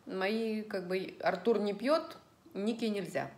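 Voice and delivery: usual speaking voice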